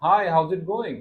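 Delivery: "Hi, how is it going" with a high, wavy lilt; lilting intonation. Shown as a demonstration. Teacher models a real greeting for the learner, lilting intonation on "Hi, how is it going". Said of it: "आवाज़ ऐसे ऐसे हो रही है मेरी".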